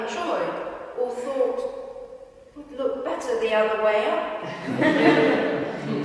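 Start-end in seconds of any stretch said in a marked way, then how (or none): 2.6-6.0 slow, with a laugh in the voice; laughing while reading. Real, not acted. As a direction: let the joke make you chuckle as you read. Amused memory of upside-down painting.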